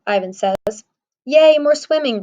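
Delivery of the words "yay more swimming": put-on bright eager squeal of a young elephant; Ruby thrilled to swim again; excited cry. A narrator's reading. Little elephant eagerly cheering about swimming. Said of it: "Ruby cries".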